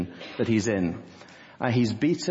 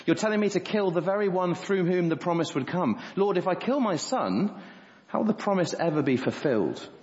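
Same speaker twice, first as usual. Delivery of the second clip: incredulous protest; 4 semitones higher than usual. Retold or imitated. Abraham's imagined protest to God.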